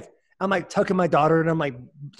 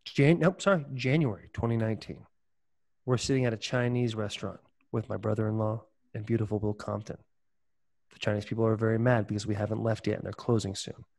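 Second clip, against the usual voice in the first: story narration; 7 semitones lower, 6 dB quieter than usual. Acted. Launches into origin story narration.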